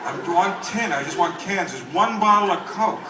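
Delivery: mock recycling lady. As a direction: chatter to the parrot like a fussy scavenger. Acts the lady with her parrot.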